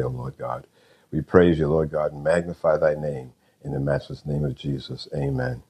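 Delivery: prayer. Real, not acted. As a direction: lead listeners in prayer, phrases trailing softly. Leads a prayer.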